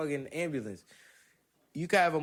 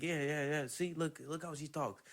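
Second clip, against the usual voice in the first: heckling aside; 2 semitones higher, 7 dB quieter than usual. Retold or imitated. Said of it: "kinda like a heckler in a comedy show".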